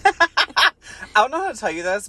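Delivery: high, hammed-up mock gravity; mock dramatic. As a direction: overplay the grave announcement. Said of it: "mocking the character".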